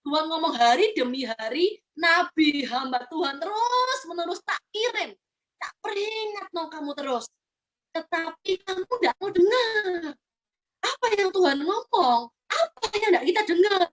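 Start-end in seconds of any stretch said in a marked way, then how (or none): 0.5-10.2 slow, near-tearful lament; grieving God. Acted. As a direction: let the voice nearly break with grief. God laments unheard prophets. (Tuhan meratap pelan, hampir menangis)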